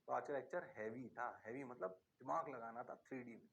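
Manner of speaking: low, soft mock student answer; student reply. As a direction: play a meek student saying yes sir. Teacher voices tired students.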